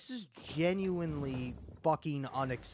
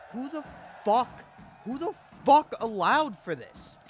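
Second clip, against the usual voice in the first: much higher and louder, yelling in outrage; real shouting fit of rage; furious shout; 9 semitones higher, 9 dB louder than usual. Real, not acted. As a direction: scream it at whoever made this. Furious gamer ranting at game.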